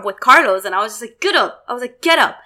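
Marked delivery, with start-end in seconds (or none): 1.2-1.6 higher-pitched demand, not shouted; mildly annoyed re-enacted command; retold upset order. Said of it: "I got so upset". 2.0-2.4 higher-pitched demand, not shouted; mildly annoyed re-enacted command; retold upset order. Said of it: "I got so upset".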